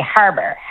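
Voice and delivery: "harbor" with a flattened Newfoundland A; flatter A. Shown as a demonstration. Dialect coach shows how Newfoundlanders say it, flatter A. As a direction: flatten the first vowel of "harbor". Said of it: "the kind of flatter A that we have".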